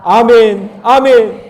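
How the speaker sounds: loud, high call of affirmation; ringing preacher's amen; shouted amen. Real, not acted. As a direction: proclaim it at full voice. Calls out amens after verse.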